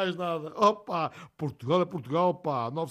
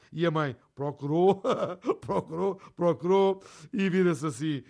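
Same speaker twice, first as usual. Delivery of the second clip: rindo ao contar. Real, not acted. Narrador ri ao contar.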